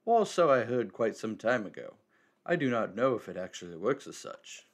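lightly voiced wise old man; a hint of a cryptic elder.

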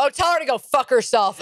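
lightly voiced, dismissive older friend of mom; irritated friend. Mom's friend advising mom, mildly mock irritated. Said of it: "And then I hear Betsy go".

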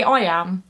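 "I am" with "am" stressed. Shown as a demonstration. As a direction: lean on "am" after a light "I". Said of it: "an unstressed syllable followed by a stressed syllable".

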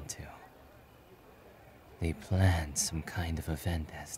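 soft, measured reluctant hero; reserved hero explaining. Acted. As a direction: recount it quietly and matter-of-factly.

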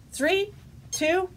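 excited countdown. Real, not acted. Countdown, louder at the end.

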